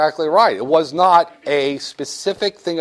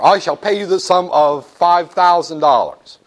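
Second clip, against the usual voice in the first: mock Spitzer offer; 3 semitones higher, 4 dB louder than usual. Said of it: "let's say you're Elliot Spitzer".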